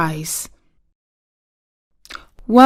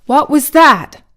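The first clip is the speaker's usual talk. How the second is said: timid, high-pitched startled question; 6 semitones higher, 6 dB louder than usual. A narrator's reading. Dorothy asks the Scarecrow about a groan, timid. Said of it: "she asked timidly".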